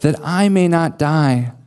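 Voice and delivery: earnest plea, deliberate on each request; lightly acted entreaty, slowing on the repeated appeals; Jonathan. Friend pleading with David for steadfast love, restrained pleading. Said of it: "He will plead with David".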